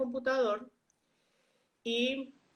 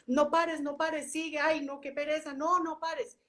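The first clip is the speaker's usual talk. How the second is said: higher, insistent nagging voice; pushy inner voice; 4 semitones higher than usual. Retold or imitated. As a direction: play the saboteur urging her on. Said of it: "me pillo un pensamiento como que es". (voz interior insistente, más aguda)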